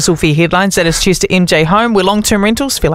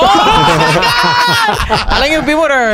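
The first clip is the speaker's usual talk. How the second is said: hammed-up shouted quote; 14 semitones higher, much slower than usual. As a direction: belt the quote like a cartoon. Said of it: "That was good".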